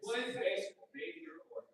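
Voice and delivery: lightly voiced high quip; mock exchange. Shown as a demonstration. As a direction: play both parts lightly. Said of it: "that's what I do".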